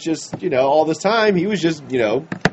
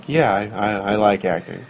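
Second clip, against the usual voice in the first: lower grumpy Harrison; 6 semitones lower than usual. Retold or imitated. Voicing Harrison answering.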